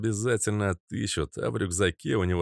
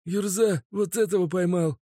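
stammering rattle; 11 semitones higher than usual. Acted. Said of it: "Запинаясь, начал тараторить Мазут".

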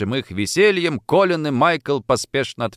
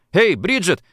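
higher-pitched hail; calling out; 8 semitones higher, 4 dB louder than usual. A narrator's reading. Boy calling his friend to get up, higher call. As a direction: call to someone lying a little way off. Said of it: "позвал он".

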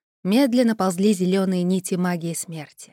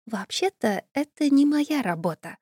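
timid inner voice; 6 semitones higher than usual. Acted. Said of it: "робко заметил внутренний голос".

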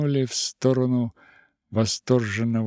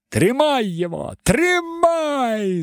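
high, loud spiteful wail; a cracked, tearful man yelling; cracked whiny angry voice; 14 semitones higher, 4 dB louder, slower than usual. Acted. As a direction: whine it in anger. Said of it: "надтреснутый и злобный и плаксивый голос".

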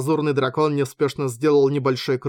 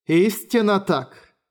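solemn agreement; 5 semitones higher, slower than usual. A narrator's reading. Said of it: "согласился кто-то".

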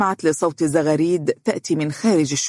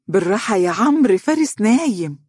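higher-pitched playful scolding with a smile; smiling reproach; 5 semitones higher, 3 dB louder than usual. A narrator's reading. Mother to her son's noisy friend at the door, smiling reproach. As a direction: chide him fondly, pitch lifted. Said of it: "وهي تقول بابتسامة".

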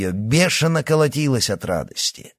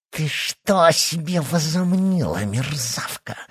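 hissed; 8 semitones higher than usual. A narrator's reading. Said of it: "прошипела Данилова".

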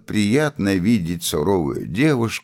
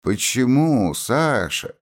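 lightly teasing, pitched up; sly question; 7 semitones higher, slower than usual. A narrator's reading. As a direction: ask it archly, lifting the voice. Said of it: "лукаво спросила Софья". (лукаво, повыше)

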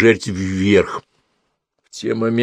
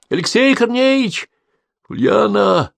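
calling out; 13 semitones higher, slower than usual. A narrator's reading. Calls from the pit.

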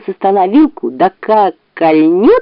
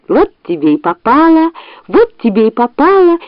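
high gleeful crowing; gloating, high-pitched delight; joyful shout; 7 semitones higher than usual. A narrator's reading. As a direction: crow it in a high teasing voice. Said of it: "крикнул от радости Шмык".

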